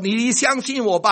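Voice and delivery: lightly voiced doctor; reassuring doctor. Doctor coaxing the patient to trust him, lightly.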